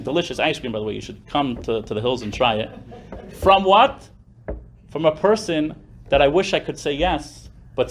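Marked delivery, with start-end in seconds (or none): 3.3-4.1 mock surprise. Mock incredulous question.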